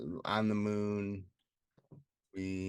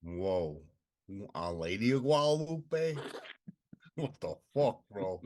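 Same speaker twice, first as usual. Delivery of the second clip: hammed-up Italian-American accent; joking Italian wise-guy accent; attempted Italian accent. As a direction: put on a loose, mock Italian accent. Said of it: "Is that Italian accent you were doing?".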